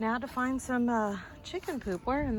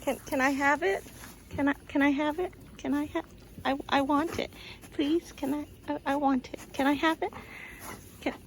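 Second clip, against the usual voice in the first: pet voice; 5 semitones higher than usual. Pretend. Voicing the dog begging for lettuce.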